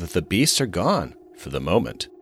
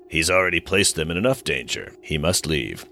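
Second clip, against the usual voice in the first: alien voice; 3 semitones lower than usual. Acted. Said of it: "in a deep, gravelly voice".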